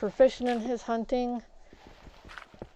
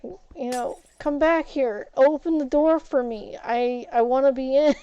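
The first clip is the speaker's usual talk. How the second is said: cat voice; 3 semitones higher, 4 dB louder than usual. Retold or imitated. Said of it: "he'll just go".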